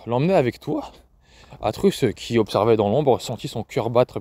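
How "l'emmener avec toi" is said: disbelieving question, rising on the end; stunned echo. Acted. Grandmother stunned by the father's plan, disbelieving echo. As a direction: repeat his words as if they can't be true. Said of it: "le regarda avec stupeur".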